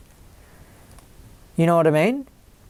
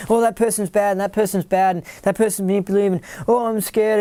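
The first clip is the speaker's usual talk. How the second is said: a touch of mock fear, rising higher at the end; mock fearful; 4 semitones higher than usual. Mocking fearful people who see danger everywhere. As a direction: parody a scared person listing threats. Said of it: "you can tell that they're scared".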